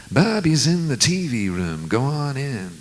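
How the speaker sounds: hint of the tour manager's borrowed singer manner. Tour manager leading him down the corridor, a light imitation of a famous singer's style. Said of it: "everybody in Dylan's entourage sounded like him".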